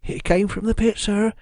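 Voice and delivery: high-pitched, trembling-servant terror; frightened whispering woman. A narrator's reading. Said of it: "she whispered".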